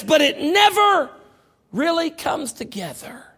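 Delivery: never shouted high and slow; shouted preaching. Acted. Preacher warns the wound never heals, shouting slowly. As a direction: land the blow with a slow shout.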